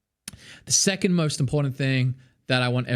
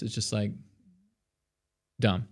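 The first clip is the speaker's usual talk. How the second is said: weak, collapsed voice from bad posture; slumped weak voice; 3 semitones lower, 7 dB quieter than usual. Shown as a demonstration. Showing students a slumped, unsupported voice. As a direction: let the voice sag with no support. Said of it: "If I just do it like this".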